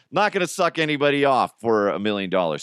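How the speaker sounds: ordinary talk, nothing marked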